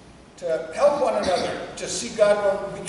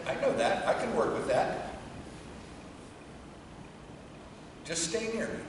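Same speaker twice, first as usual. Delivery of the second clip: soft and low, gently reassuring; a quiet, tender answer to an angry man; gentle voice of God; 3 semitones lower, 10 dB quieter than usual. Retold or imitated. The voice of God answering a grieving man, soft and gentle. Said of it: "And a voice came to me".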